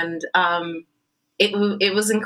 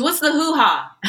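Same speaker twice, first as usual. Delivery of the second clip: high-pitched imitation of a puzzled man; mock baffled query; 10 semitones higher, 4 dB louder than usual. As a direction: pitch the question up, as if calling out. Director repeating his baffled question.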